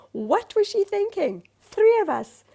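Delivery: very high, loud outraged plant; an affronted houseplant complaining in a high put-on accent; accented talking plant. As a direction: squawk it in a silly accent, incredulous. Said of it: "that's how they speak to me".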